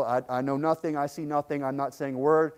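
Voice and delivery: lightly voiced, stonewalling; muttered denial, mock Italian mafia; mafia style. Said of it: "typical Italian mafia style".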